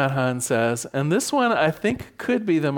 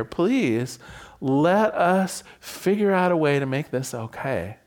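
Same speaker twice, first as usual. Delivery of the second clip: honest plea; 2 semitones lower than usual. Shown as a demonstration. To a partner after the cool-down, sincere plea. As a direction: open and earnest, no blame. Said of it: "We wanna honestly say".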